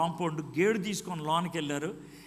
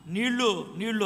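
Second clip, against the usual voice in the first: mild mock cry for water, a bit louder; retold call for water; 3 semitones higher, 4 dB louder than usual. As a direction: call out for water, half-hearted. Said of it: "గట్టిగా అరుస్తున్నా". (నీళ్ళ కోసం తేలికగా అరవడం)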